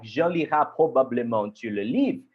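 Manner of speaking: fast, clumsy French with English accent; broken French. Shown as a demonstration. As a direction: rattle off the French line like a learner. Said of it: "sorry for my bad French".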